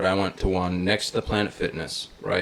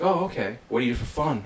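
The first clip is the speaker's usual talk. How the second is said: higher, lightly imitated chatty question; retold hairdresser; 4 semitones higher, 4 dB quieter than usual. Hairdresser asking her client about fun, lightly imitated. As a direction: pitch it up, a touch of her voice. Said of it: "And she's like".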